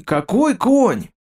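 king admiring the horse, slow rising delight; delighted exclaim. A narrator's reading. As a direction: burst out какой конь in delight. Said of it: "сказал с удовольствием".

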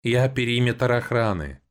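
high, slow creak; creaky robot voice. A narrator's reading. Guard robot introduces itself, high slow creak. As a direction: announce it like a rusty machine. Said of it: "проскрипел сразу же после этого голос".

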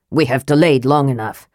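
impatient dwarf prince. Acted. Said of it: "he sounded impatient".

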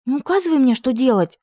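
put-on a girl flaring up at being bossed. A narrator's reading. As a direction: snap back in sudden anger. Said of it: "вспылила Уна".

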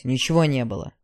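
low, pressed and firm; firm denial. A narrator's reading. Ignat warning Yara to forget last night, firm and low. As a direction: lean hard on ничего, falling. Ignat insisting nothing happened.

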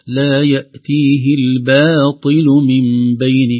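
الباطل recited slowly with a light ba. Shown as a demonstration. Teacher to students, modelling a light ba. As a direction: say the ba of الباطل thin, only the ta heavy. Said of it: "الباء لا تفخم أبدًا".

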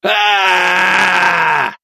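high loud squeal; squealing like a stuck pig. Acted. Leader squeals in agony, high and loud. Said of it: "верещал он, как резаный свин".

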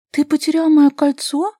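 high, loud, slowed outraged question; indignant. A narrator's reading. Vasilisa indignant at Robert for losing her ring. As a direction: rise up in indignation over the ring. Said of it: "возмутилась Василиса".

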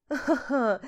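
короткий язвительный смех; злорадный хохоток; горький смешок. Acted. Горький смех над мужем. (горький смех над изменщиком)

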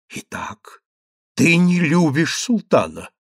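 a touch of wild glee in the question; eager, barely hidden delight; wild joy. Acted. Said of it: "переспросил с дикой радостью визирь".

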